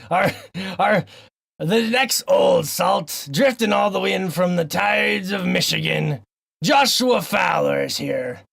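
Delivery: slow, hammed-up pirate introducing the next guest; pirate announcer. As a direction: announce the old salt like a ship's captain. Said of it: "talk in a weird pirate voice the whole intro".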